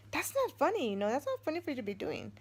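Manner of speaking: high, sharp telling-off; retold scolding. Telling off husband for the light prank, mock scolding. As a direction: scold him like he pulled a prank.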